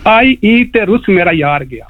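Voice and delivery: poem recitation. Shown as a demonstration. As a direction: recite the opening line with flourish. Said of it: "یہ میں چھوٹی سی شاعری لے کے آیا ہوں". (اونچی آواز میں شعر پڑھنا)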